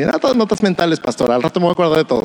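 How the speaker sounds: quick breezy brush-off imitating a listener; rattled-off, fast mock excuse from the pews. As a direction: toss it off fast like a lazy excuse. Mimicking a congregant's excuse.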